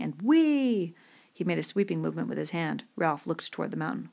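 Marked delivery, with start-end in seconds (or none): 0.2-0.9 high, loud, drawn-out whoop; exulting. A narrator's reading. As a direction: whoop with glee as it goes flying.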